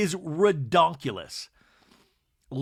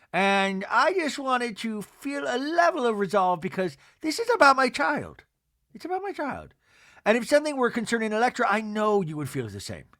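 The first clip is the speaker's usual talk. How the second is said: higher, lightly mock-earnest pleading; Meredith impression; 4 semitones higher than usual. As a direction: plead your case in a raised voice. Mimics Meredith pleading about her child.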